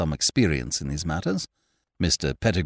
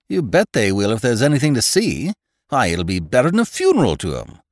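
put-on brash young man; 5 semitones higher, 4 dB louder than usual. Voices young Freddy.

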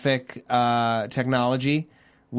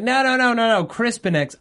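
high exaggerated no no no; lightly hammed-up character quote; mock character protest; 9 semitones higher, 4 dB louder than usual. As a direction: squeal the refusal in a mock voice.

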